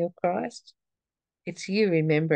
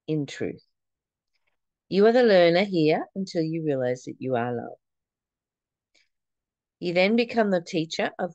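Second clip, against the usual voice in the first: scripture reading. Acted. Reads scripture passage aloud.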